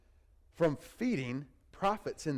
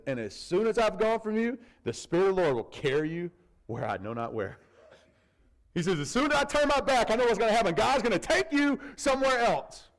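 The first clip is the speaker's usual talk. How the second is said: tense Obadiah; 4 semitones higher, 3 dB louder than usual. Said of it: "Obadiah's a little tense".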